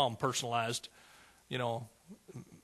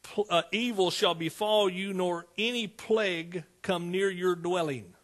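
proclaimed scripture; 2 semitones higher, slower than usual. Acted. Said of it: "He says".

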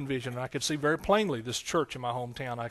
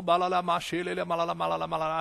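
imitating speaking in tongues; 3 semitones higher, faster than usual. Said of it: "why don't you just do what you did".

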